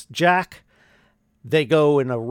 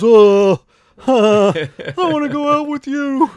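awkward pickup line; 10 semitones higher, 7 dB louder than usual. Retold or imitated. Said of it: "My pickup line was".

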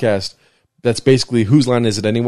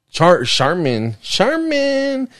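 sudden recall; 7 semitones higher, much slower than usual. Real, not acted. Finally remembers the brand name.

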